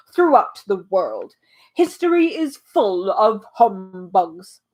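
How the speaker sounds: lightly voiced pompous old humbug, proud and grand; boastful humbug. Humbug brags to Milo and the bee, lightly hammed pomp. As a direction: puff up like a self-important old bug bragging.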